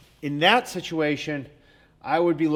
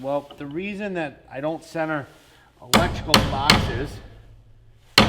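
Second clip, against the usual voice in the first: talking over hammer blows, louder; while hammering; 4 dB louder than usual. Real, not acted. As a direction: speak while driving a nail. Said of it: "talk to you while I nail this".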